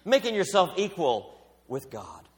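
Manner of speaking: religious leaders rebuking Jesus, indignant outcry; outraged accusation. Retold or imitated. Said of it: "They said".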